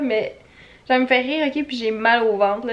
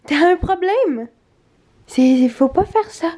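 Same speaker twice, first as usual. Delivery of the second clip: "T'as un problème?" higher and slower, drawn out; slow mock scolding; 5 semitones higher, 4 dB louder, slower than usual. Owner teasing her drunk dog, slow higher mock scold.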